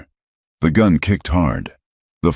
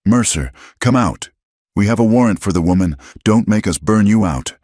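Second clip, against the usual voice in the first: loud, higher call from outside; 5 semitones higher, 3 dB louder than usual. Acted. Brady threatening the cabin from the darkness, loud call.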